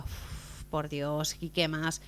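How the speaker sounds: hushed and soft, half whispered; breathy hushed awe. Acted. Woman in the disco reacting to his boast, hushed. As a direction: let it out on a soft breath, impressed.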